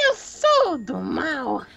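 slow, low evil clown taunt. Acted. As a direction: gloat like a villain. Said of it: "você tá com a voz do mal".

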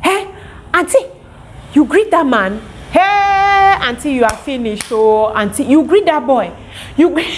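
a hint of a frightened bystander; mock alarmed warning. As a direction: warn her like a scared onlooker. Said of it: "I was like".

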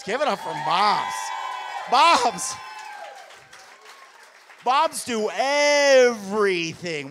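rally the room for moms; cheering shout. Real, not acted. Comic asks audience to applaud moms, loud slow cheering shout.

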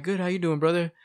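bright, friendly reply; cheerful greeting. Retold or imitated. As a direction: greet him back like a brother. Retold friendly church greeting.

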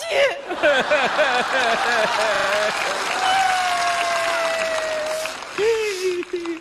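long high-pitched comic bawl; hammed-up sobbing wail, drawn out; crying wail. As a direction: burst into exaggerated high wailing. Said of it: "不哭啊".

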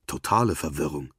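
usual speaking voice

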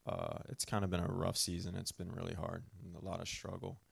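talking while chewing gum; words around a wad of gum. Real, not acted. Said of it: "I've got gum in my mouth again".

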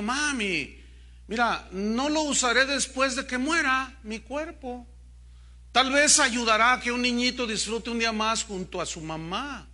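a hint of a pleading son; lightly voiced child. Mother quotes her little boy pleading.

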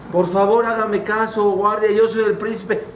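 acted urgent plea; pleading prince. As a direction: beg the guard to listen. Prince begs the guard.

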